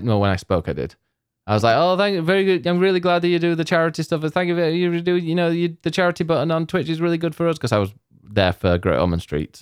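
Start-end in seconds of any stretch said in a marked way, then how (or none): 1.5-7.6 slurred, pitched-up babble, words running together. Retelling an awkward moment saying hello to him, imitating slurred words. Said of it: "and slurring your words".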